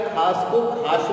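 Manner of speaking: first खास with s, second as khaash; खास correctly, then खास ending in sh; mispronunciation shown. Shown as a demonstration. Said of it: "teacher ने पता लगा लिया कि". (पहला खास "स" से, दूसरा "श" से)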